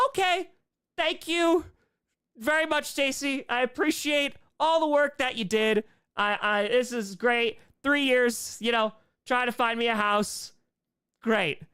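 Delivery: thanking the agent in a high, stunned politeness; dazed polite thanks. Retold or imitated. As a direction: sound shell-shocked but courteous.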